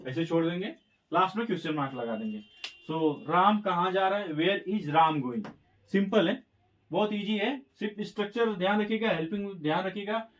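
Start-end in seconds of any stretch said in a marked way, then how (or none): 4.3-5.5 each word drawn out slowly; slow dictation. Shown as a demonstration. Teacher reads the translated answer to the class, very slowly. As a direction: say it word by word for students to copy.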